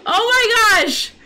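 high, slow, drawn-out disbelief; shocked exclamation. Real, not acted. Player discovers a hole in the ship, shocked exclamation. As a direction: cry out in dismay after laughing.

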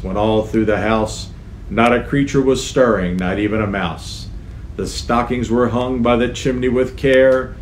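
rhythmic reading of a Christmas poem. Acted. Reading a Christmas poem to young children, lilting. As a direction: read the verses with a lilting rhythm.

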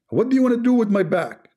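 high, mock-alarmed squeak. Streamer joking about the phrase, high mock panic. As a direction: squeal it like someone afraid for his back.

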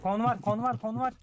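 loud, urgent shout of enemy spot; urgent callout. Real, not acted. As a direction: call it out fast and loud.

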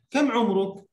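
normal talking voice

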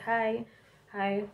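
put-on American twang greeting. Jamaican cashier greeting customers like them, put-on twang. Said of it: "start talk like them".

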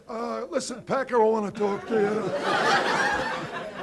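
slow, quiet mock mobster demand; lightly voiced gangster, slow and menacing; mafia tough guy. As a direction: lean in like a hood making an offer. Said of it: "Some guy walking in, say".

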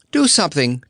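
the first, smaller cry for help; begging. Acted. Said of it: "begged Dorothy".

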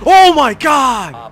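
high, drawn-out cry of disbelief; stunned shout. Real, not acted. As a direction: cry out in shock, stretching the words. Stunned shout during a game round.

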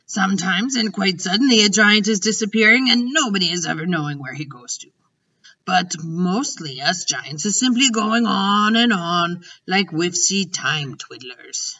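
a hint of a giant, lively then slowing; lightly voiced storytelling giant. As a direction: lightly play a giant explaining a mystery.

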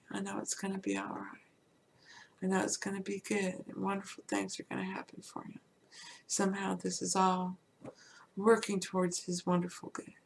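soft, hushed hopeful self-talk; gentle reassurance. Acted. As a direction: quietly reassure yourself they'll be fine. Voicing hopeful reassurance for someone hurting.

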